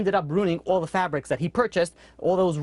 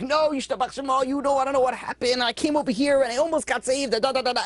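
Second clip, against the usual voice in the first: higher, eager retelling of a lucky escape; excited storyteller; 7 semitones higher than usual. Retold or imitated. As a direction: gush like someone bragging about a miracle. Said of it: "Or you'd be like".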